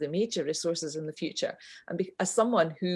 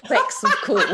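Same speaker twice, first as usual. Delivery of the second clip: posh Edinburgh; 7 semitones higher, 7 dB louder than usual. Retold or imitated. Mimicking posh Edinburgh ladies.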